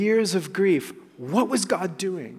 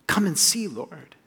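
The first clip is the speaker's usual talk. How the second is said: gentle plea. Shown as a demonstration. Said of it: "Do you hear that in verse thirty-four?".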